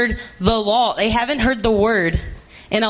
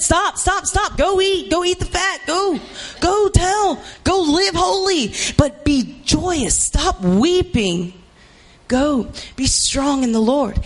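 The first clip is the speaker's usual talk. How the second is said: raised urging; 5 semitones higher than usual. Acted. Levites urging the people.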